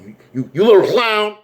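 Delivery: high, stammered taunt; mock insult. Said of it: "begin to insult him over and over".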